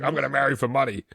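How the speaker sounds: thick Boston accent, hammed up. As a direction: say it like a Southie local. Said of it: "a wicked bad Boston accent".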